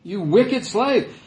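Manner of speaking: "slave" hit hard and drawn out, condemning. Shown as a demonstration. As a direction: spit out "You wicked slave" like the furious king. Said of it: "That's how he started off everything he said".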